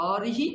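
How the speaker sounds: "অরিহি" as open o, then rihi; one of three. Shown as a demonstration. Teacher compares three words for student, r and i joined. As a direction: run r into i in "অরিহি". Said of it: "তিনটে আলাদা উচ্চারণ".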